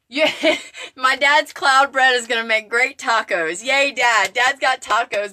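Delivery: cheering on dad between giggles; giddy laughing hooray. Real, not acted. Cheering dad's cloud bread, laughing.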